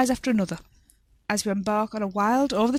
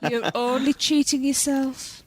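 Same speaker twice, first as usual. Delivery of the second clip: mother voice; 3 semitones higher, slower than usual. Acted. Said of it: "I sound like my mother".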